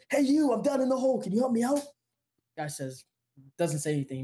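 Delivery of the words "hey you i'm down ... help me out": high, mock call up from a hole; retold shout. Man in a hole calling up to a passerby, high mock shout. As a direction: call up for help, half-acted. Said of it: "the guy in the hole shouts up".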